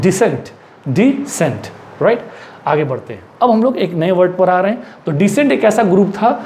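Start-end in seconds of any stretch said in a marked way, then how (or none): 0.0-1.7 dissent said slowly with one s, di-SENT; model pronunciation. Shown as a demonstration. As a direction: repeat dissent, a single clean s. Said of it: "what we'll pronounce".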